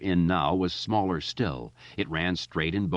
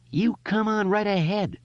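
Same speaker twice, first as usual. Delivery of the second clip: high, loud defiant shout; 3 dB louder than usual. Acted. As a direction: yell a taunt into the pipe. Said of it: "Richie shouted".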